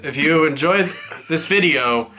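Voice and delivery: laughing. Real, not acted. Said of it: "he caught me off guard".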